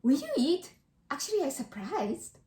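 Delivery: surprised question. Shown as a demonstration.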